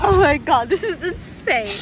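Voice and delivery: laughing. Real, not acted. Laughing after bird incident.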